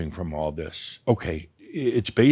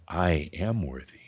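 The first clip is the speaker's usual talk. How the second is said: softer, settled, simple statement; calm after a deep breath; 5 semitones lower, 6 dB quieter than usual. Shown as a demonstration. Teacher showing a calm, simple affirmation after a breath. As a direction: breathe in, then say it plainly and calmly. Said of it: "You just take a deep breath".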